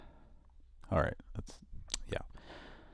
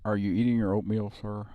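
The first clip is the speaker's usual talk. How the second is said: teasing question; 5 semitones higher than usual. Pretend. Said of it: "He sounded like he was eating".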